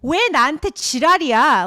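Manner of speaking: fast imitation of a furious yell; retold screaming. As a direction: imitate her screaming at her friends. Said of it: "she's, like, screaming".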